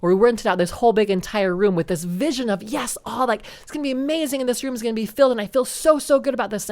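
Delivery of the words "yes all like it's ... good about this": higher, eager and gushing; mock excitement. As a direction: replay the giddy hope before the letdown. Mimics own hopeful excitement.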